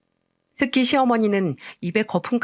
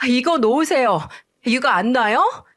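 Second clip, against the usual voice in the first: shouting while fighting; 5 semitones higher than usual. Retold or imitated. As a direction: yell at her to let go of the hair. Hair pulled, fighting back. (머리채 잡힌 채 높고 크게 외치는 소리)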